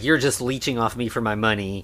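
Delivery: ordinary delivery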